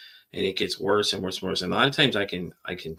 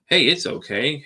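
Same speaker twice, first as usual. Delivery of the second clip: higher, louder soothing hey, mocking the people who say it; mock reassurance; 6 semitones higher, 5 dB louder, slower than usual. Podcaster mocking people who calm him down, in an exaggerated soothing voice. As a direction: imitate an overeager comforter, a touch loud. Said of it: "you're sitting there telling me".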